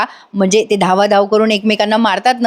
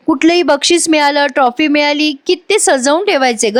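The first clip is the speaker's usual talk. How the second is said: lightly acted tearful pleading, a bit higher at times; mock tearful plea; 4 semitones higher than usual. Avani to sister-in-law on the phone, a touch tearful. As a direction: ask it like a hurt daughter holding back tears. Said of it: "Avni रडते आणि म्हणते".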